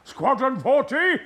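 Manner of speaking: huge high roaring charge; rally the squadron into the dive; battle cry. Acted. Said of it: "I just said".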